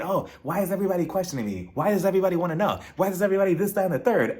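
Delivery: mock her moaning, rattling it off; mocking whine. Mocking a castmate's moaning in the hotel room, fast and whiny. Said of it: "bitching and moaning".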